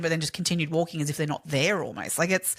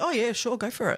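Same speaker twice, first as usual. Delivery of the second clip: acted, eerily offhand, breezy, creepily casual, pitched up; 6 semitones higher than usual. Retelling a husband's reply to a police officer: imitating a creepily casual tone. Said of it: "he's creepily casual".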